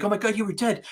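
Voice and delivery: retold distraught friend. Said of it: "he's like".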